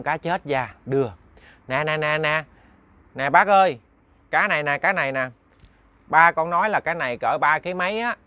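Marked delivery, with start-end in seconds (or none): 1.7-8.2 put-on a boy pleased to sell; glad boy. Đức happily telling the old man about the fish.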